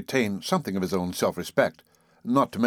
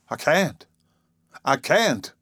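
moaning; 6 semitones higher, 4 dB louder, slower than usual. A narrator's reading. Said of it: "he moaned".

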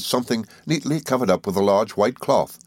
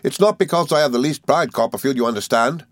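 put-on high, eager old schoolfellow; Traddles, good-tempered; 7 semitones higher, 3 dB louder than usual. A narrator's reading. Traddles welcoming his old friend, high and good-tempered. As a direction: explain earnestly in a lifted character voice. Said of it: "said Traddles".

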